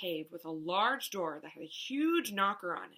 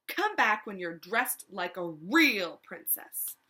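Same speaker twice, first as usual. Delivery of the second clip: a snobby prince looking down his nose; snooty prince; 5 dB louder than usual. Acted. Ronald scolds Elizabeth.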